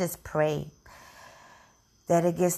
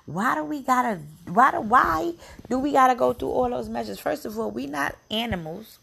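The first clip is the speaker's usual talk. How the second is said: outraged; 5 semitones higher than usual. Real, not acted. Outraged about police stops.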